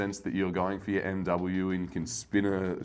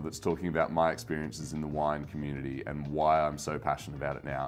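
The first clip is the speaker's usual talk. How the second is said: calm low voice; 6 semitones lower, 6 dB quieter than usual. Shown as a demonstration. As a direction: lower and softer, deliberately calmed. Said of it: "my voice is no longer at this octave".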